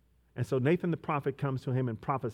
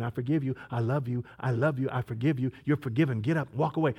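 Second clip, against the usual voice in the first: tender voice of God. Acted. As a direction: hush it like a loving father. Voicing God's gentle words.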